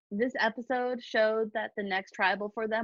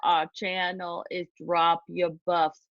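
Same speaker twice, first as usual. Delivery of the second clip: put-on slow, drawn-out Boston accent, lightly done; a shaky attempt at a Boston Rob accent; an amateur Boston Rob impression while reading the podcast outro. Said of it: "with my Boston Rob accent".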